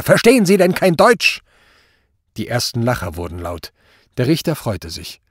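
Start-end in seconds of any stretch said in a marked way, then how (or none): 0.0-1.4 high, shouted rebuke; exasperated shouting judge; furious scream. A narrator's reading. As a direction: yell it as if he were stupid. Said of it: "schrie der Richter".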